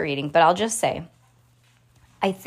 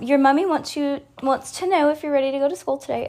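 higher mock British accent; posh British accent; 7 semitones higher than usual. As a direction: put on a British mum accent. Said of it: "I'll say mummy in an accent".

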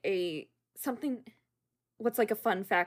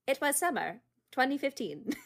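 AI impostor; 5 semitones higher than usual. Acted. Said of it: "The A I would be like".

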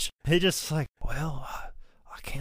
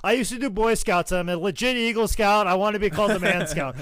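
higher, hammed-up eager self-pitch; 4 semitones higher than usual. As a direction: sell yourself to the boss with mock zeal. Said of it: "I'd be like".

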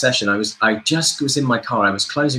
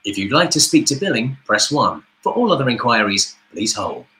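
phone menu voice. Shown as a demonstration. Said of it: "their answer phone service".

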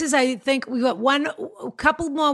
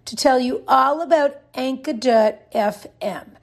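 ad read. Acted. Reads a sponsor ad.

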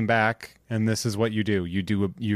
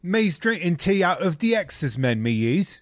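mock cockney; 5 semitones higher, slower than usual. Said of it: "Oh, look at me".

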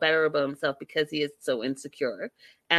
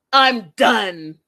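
mock catchphrase; 2 semitones higher, 10 dB louder than usual. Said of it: "That's the line".

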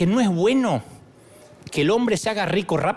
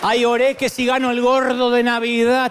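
louder, whiny mock believer; mock lottery hopeful; 4 semitones higher, 5 dB louder than usual. Preacher mocking a woman praying for the Christmas lottery. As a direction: mimic a hopeful lady praying to win.

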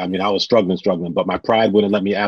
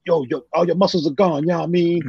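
imitating Mike; 7 semitones higher than usual. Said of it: "I'm like".

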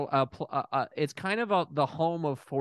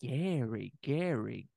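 stunned hush; 8 dB quieter, much slower than usual. Acted. Doctor overwhelmed by Gary's smile.

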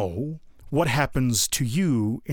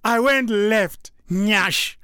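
put-on much higher and louder Nigerian-accented punchline, near laughing; Nigerian accent imitation; 10 semitones higher, 4 dB louder, much slower than usual. Quoting the Nigerian guy's punchline, laughing Nigerian accent. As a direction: belt it out giggling, slow on left. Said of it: "And then he says".

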